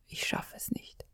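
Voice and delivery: silently mouthing, almost no breath; just shape the words without voice; mouthed words. Retold or imitated. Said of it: "die Worte geformt".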